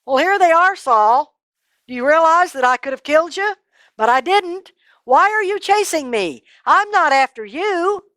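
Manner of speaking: high, loud questioning; confronting. Acted. David confronting Saul, high and loud. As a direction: press him hard.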